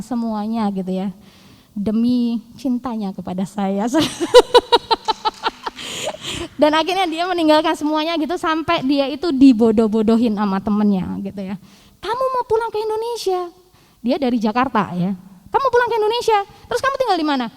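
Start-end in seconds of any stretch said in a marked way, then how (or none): 3.9-6.5 high giggling laugh. Real, not acted. Telling how he left everything for her, high laugh. Laughs about his sacrifice. 12.0-17.5 high, incredulous mocking friend; mock him for giving it all up. Friends ridiculing his move home, high mocking voice.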